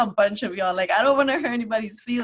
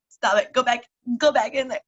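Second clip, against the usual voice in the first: scolding own tears; 3 semitones higher, 5 dB louder than usual. Retold or imitated. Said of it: "tearing up, and I'm just like".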